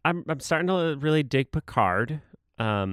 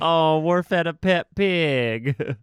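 drawn-out, higher-pitched aww; slow, melting reaction; cooing at cuteness; 5 semitones higher, slower than usual. Retold or imitated. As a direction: coo it slowly, as if at something adorable. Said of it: "that was really cute".

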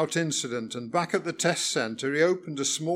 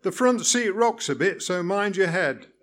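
cheerful; 4 semitones higher, 3 dB louder than usual. Acted. Cheerful reply continues.

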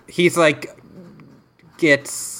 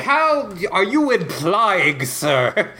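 mock offended brother; 6 semitones higher, much slower than usual. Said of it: "Yeah, like".

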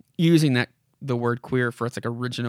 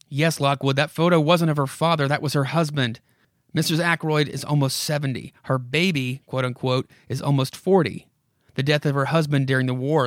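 put-on a creaky old house coaxing the visitor; spooky house voice; 4 dB louder than usual. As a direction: lure him in like a haunted house. House voice goes on.

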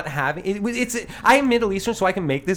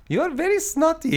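laughing while quoting; 12 semitones higher than usual. Retold or imitated. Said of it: "And then he goes".

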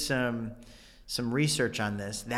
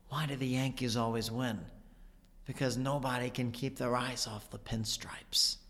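Walken quote, hushed; 7 dB quieter than usual. Retold or imitated. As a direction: lean in and let it drift quietly. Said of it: "one of my Chris Walken quotes".

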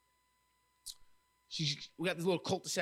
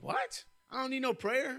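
high-pitched imitation of an irate driver; mock indignation; 9 semitones higher than usual. Angry driver refuses the speaker's prayer, mock indignation. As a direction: snub the offer in a high, offended voice. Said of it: "she's cursing at me".

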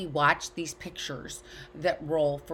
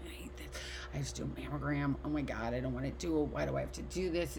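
whiny complaint; 4 dB quieter than usual. Retold or imitated. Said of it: "I was like".

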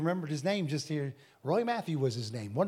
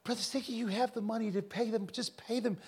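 higher, softly imitated Indian accent; 5 semitones higher, 5 dB quieter than usual. Indian fellow urges preacher to pay, imitated Indian accent. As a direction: mimic his pleading in an Indian accent. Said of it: "he's an Indian fellow".

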